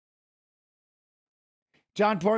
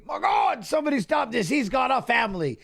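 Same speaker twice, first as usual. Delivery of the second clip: mock panic voice; 3 semitones higher than usual. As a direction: ham up a panicking commentator. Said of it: "your panic voice".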